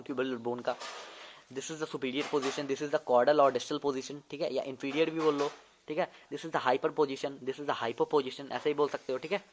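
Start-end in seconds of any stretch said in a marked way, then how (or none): 1.5-4.2 very slow, every word spaced out; slow dictation. Shown as a demonstration. Teacher dictating positions slowly to note-taking students. 6.3-8.5 very slow, every word spaced out; slow dictation. Shown as a demonstration. Teacher dictating positions slowly to note-taking students.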